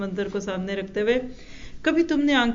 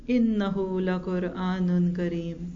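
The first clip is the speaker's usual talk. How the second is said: slow Quran recitation; 3 semitones lower, slower than usual. Real, not acted. Quotes a Quran verse.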